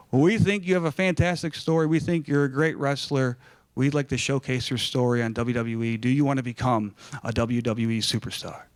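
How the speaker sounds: imitated executive making his pitch; John Laurinaitis. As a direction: pitch it like a talent boss on the phone. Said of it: "my name is John Laurinaitis".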